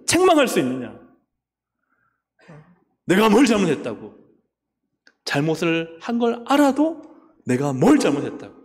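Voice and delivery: defiant retort with 뭘 stressed; indignant king. Acted. King defying the rebuking priest, indignant. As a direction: demand what he did wrong. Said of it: "화를 내는 거예요".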